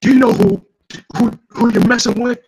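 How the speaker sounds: loud, high threatening yell; menacing shout. Acted. Gang boss shouting at the hero, loud and high. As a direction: bellow the threat at him. Villain threatening in comic dialogue.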